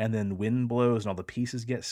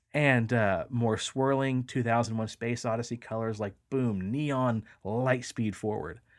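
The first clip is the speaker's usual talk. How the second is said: normal talking voice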